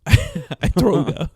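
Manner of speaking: laughing, slow, light Vietnamese accent imitation. Retelling friend's flight sickness, light Vietnamese accent through laughter. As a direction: repeat her line, mimicking her Vietnamese accent. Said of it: "she has that Vietnam accent".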